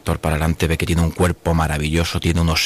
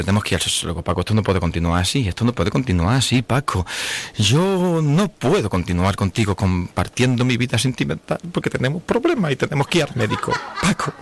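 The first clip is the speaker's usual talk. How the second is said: nagging wife voice rising to high pitch, breaking into a laugh; pleading wife, climbing higher; 5 semitones higher than usual. Acted. Wife begging Paco to go to the sexologist, pleading higher and higher. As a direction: whine it higher and higher as the worried wife.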